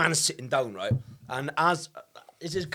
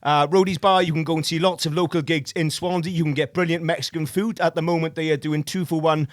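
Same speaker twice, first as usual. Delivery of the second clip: ad read. Acted. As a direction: sell the venues like a radio ad. Reads a sponsor ad.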